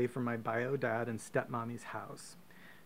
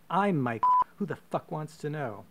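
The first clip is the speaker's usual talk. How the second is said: 1 aggressive challenge; 4 semitones higher, 8 dB louder than usual. Retold or imitated. Brother storms up, confronting.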